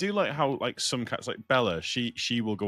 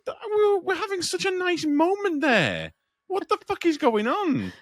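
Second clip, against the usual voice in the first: upset; 7 dB louder, slower than usual. Retold or imitated. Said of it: "You're like".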